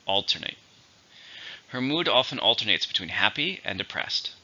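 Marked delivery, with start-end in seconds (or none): 0.1-0.6 "Alternate" stressed on AL; stress on first syllable. Shown as a demonstration. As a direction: say "Alternate" with the weight on AL, ending in "nate". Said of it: "stress on the first".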